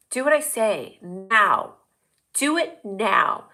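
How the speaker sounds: slow, drawn-out order; mock bossy command. Flight attendant bossing viewers, mock commanding. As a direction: stretch it into a playful command.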